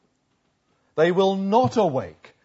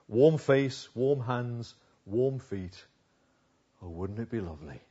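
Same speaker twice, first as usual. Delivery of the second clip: spoken song lyric; 6 semitones lower than usual. Acted. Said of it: "But this is what she says".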